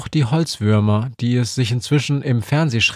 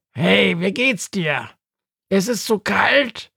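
higher, brisk little bird voice for Günther; higher voiced Günther cheering Befana up; Günther, cheerful; 9 semitones higher than usual. A narrator's reading. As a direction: chirp it as the upbeat raven Günther. Günther's voice in the story.

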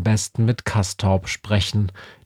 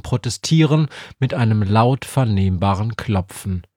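usual speaking voice

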